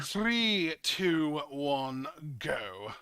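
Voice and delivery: counting down, calling out; big hype countdown; loud countdown. Acted. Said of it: "Count us down, partner".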